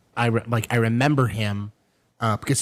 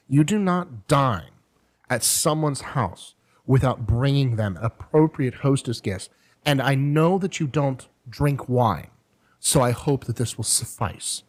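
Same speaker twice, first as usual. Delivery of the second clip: hint of British accent; 3 semitones higher, slower than usual. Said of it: "She's very British".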